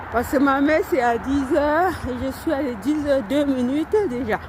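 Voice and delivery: talking while jogging; out of breath from running. Real, not acted. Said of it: "là je cours".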